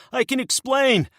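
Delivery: high, pleading whimper. Acted. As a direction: beg in a frightened high whimper. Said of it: "Locken whimpers".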